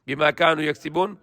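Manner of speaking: swift, even Quranic recitation. Acted. Preacher reciting the verse to listeners in quick chant.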